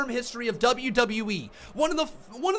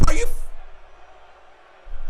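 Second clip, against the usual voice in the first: sudden loud, higher angry cry; angry outburst; 8 semitones higher, 4 dB louder, much faster than usual. Real, not acted. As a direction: blurt it out in real disbelief. Furious fan watching a bad ending.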